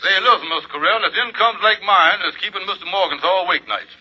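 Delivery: Kingfish voice. Acted. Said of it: "when I'm playing the Kingfish".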